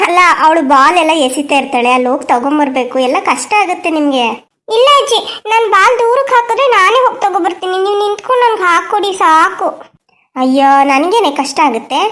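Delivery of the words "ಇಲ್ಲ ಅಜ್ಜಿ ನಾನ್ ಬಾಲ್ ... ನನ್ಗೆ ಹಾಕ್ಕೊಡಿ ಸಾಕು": put-on a child begging grandma to throw the ball; eager child. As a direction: insist eagerly you'll fetch the ball.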